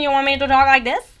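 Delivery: hammed-up, vaguely country accent; mock country accent. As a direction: put on an uncertain country twang. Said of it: "Maybe country?".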